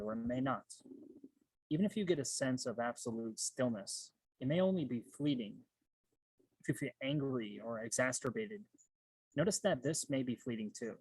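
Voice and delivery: measured meditation instructions with long pauses; guided meditation. Real, not acted. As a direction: guide listeners through breathing, leaving space between phrases. Leads one-minute guided meditation.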